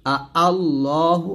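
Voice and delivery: very slow আ আল্লাহু with both hamzas; tashil demo. Shown as a demonstration. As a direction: draw it out, both hamzas clear. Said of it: "এরকম".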